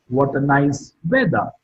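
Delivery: "weather" lifts, then drops sharply in pitch; falling tone on weather. Shown as a demonstration. Teacher demonstrating an exclamation for students, falling tone on "weather". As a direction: let "weather" fall away at the end. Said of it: "Weather is marked with a falling tone".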